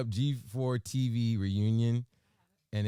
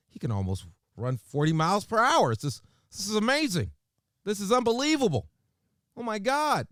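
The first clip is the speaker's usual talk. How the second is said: high-pitched mock white-person voice, amazed; Dave Chappelle white person; 10 semitones higher, 6 dB louder than usual. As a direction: climb into an exaggerated, gushing white-guy voice. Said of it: "do my Dave Chappelle white person".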